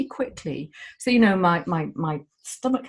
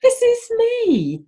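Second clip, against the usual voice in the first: high, loud and slow, triumphant; proud declaration; 5 dB louder, much slower than usual. Retold or imitated. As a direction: declare yourself proudly, drawn out. Women proudly showing their selfies.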